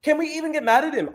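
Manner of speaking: high mocking falsetto, gushing; swooning fan girls. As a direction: ham up an adoring girl crying out his name. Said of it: "all these girls that are just like".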